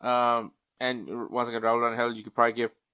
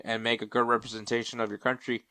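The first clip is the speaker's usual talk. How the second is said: yawning; 5 dB quieter than usual. Real, not acted. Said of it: "sorry for yawning".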